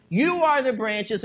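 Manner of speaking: "You are the branches" with firm emphasis; emphatic quoted "You are the branches". Retold or imitated.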